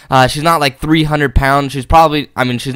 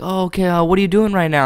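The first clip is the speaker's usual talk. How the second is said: mock woman's voice; 6 semitones higher than usual. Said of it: "And she's like".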